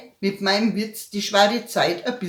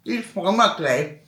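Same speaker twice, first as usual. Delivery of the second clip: calm grandma; 2 semitones lower than usual. Retold or imitated. Grandma answers calmly.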